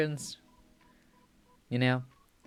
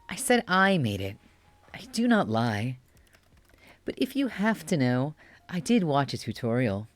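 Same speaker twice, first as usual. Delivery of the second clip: put-on bratty cute boy. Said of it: "give him a cutie voice".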